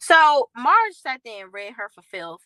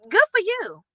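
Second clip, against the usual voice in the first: high mocking good for you; a mocking congratulation, voice way up; sarcastic; 11 semitones higher, 4 dB louder than usual. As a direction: sneer it in a put-on high voice. Sarcastic quote aimed at Jennifer.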